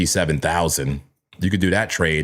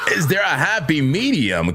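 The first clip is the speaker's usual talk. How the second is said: laughing shout; 7 semitones higher than usual. Real, not acted. Repeating his question to viewers, laughing shout.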